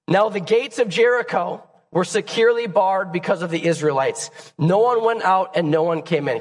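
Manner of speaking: hoarse, strained reading voice; raspy voice. Real, not acted. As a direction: read it through a rough throat. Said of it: "You just have to deal with my raspy voice".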